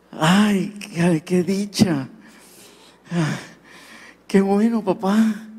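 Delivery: slow, amazed happy son; a touch of awed delight. Retold or imitated. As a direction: savour the joy slowly. Son overjoyed at father's call.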